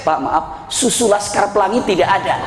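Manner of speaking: quoting the friend's mix-up through laughter; laughing while quoting. Retold or imitated. Laughing as he retells the friend's mix-up. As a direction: giggle through the line.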